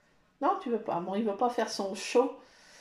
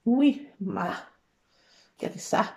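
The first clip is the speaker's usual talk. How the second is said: ordinary talk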